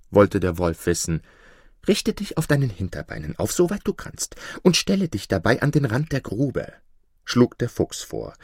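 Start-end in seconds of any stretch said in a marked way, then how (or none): 1.9-6.7 lightly voiced crafty fox giving orders; sly fox. Fox telling the wolf how to stand, lightly sly. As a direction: instruct him smoothly.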